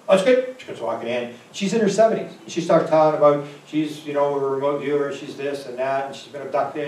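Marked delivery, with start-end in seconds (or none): 0.1-0.6 put-on high old lady. Elderly woman voiced in story.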